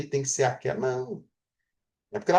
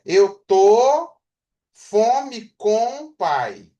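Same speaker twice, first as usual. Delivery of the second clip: very slow, word by word, a bit louder; scrambled words, slow; 4 semitones higher, 5 dB louder, much slower than usual. Shown as a demonstration. Teacher showing a jumbled sentence, very slow and deliberate. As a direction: lay the jumbled order out word by word. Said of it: "Ela não fala assim".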